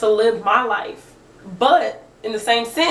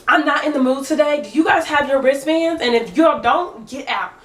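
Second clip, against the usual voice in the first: a hint of a curt, bossy neighbor, pitched up; imitating her barking; 4 semitones higher than usual. Woman at the pool demanding wristbands, curt and bossy. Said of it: "she just was barking".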